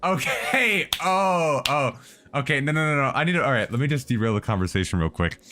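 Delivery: loud, high, rattled outburst; frantic, can't calm down; panicked and frantic. Real, not acted. Panicked reaction to a leak.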